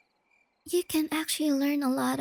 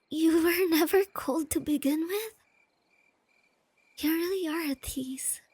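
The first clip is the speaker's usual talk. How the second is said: laughing tease; 3 dB louder than usual. Acted. Teasing partner who faked cold.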